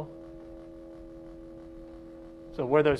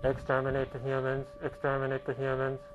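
Dalek chant through a lower-pitched oscillator; lower-frequency Dalek; 5 dB quieter than usual. Shown as a demonstration. Teacher retries the Dalek with a lower oscillator frequency. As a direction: intone it like a Dalek, with the modulator set lower. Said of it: "let's try a little bit lower frequency".

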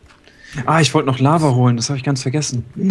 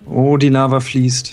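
slow marvel; 2 semitones higher, 4 dB louder, much slower than usual. Real, not acted. Marvelling at flowing lava.

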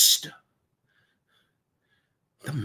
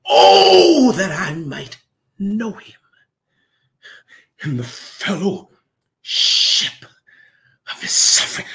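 anguished cry. Real, not acted. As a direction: cry out, then let the voice break to nothing. Preacher crying out, then breaking.

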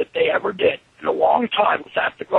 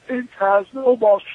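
taunting the crowd; slower than usual. Retold or imitated. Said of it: "looked at the crowd and said".

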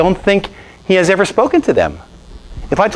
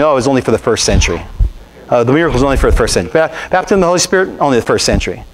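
mocking quote; faster than usual. Mocking doubters' claims.

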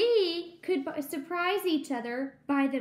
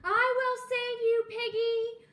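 heroic vow; 7 semitones higher, 3 dB louder than usual. Acted. Heroic vow to rescue friend.

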